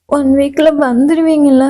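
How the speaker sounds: a touch of crying, pleading for reassurance; mildly tearful. Acted. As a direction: ask it as if holding back tears. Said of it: "இப்ப எதுக்குடி அழுகுற".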